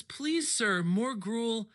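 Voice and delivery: slow, drawn-out pleading orphan bit; begging orphan. Retold or imitated. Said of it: "he always says".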